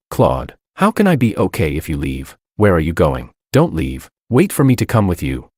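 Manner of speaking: ordinary delivery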